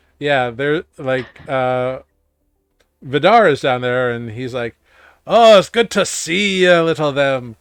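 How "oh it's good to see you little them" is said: put-on Scottish accent. Voicing an innkeeper greeting a guest at breakfast: Scottish accent. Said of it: "why did he become Scottish?".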